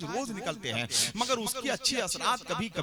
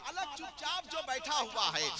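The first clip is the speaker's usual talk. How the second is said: line dropped to a much softer hush; soft repeat; 6 semitones higher, 5 dB quieter than usual. Acted. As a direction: pull the crowd in by going quiet. (धीमी आवाज़ में दोहराना)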